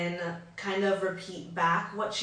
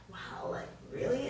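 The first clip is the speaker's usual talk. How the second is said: interested reaction; 6 semitones higher, 10 dB quieter than usual. Shown as a demonstration. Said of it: "maybe I'm furrowing my brows".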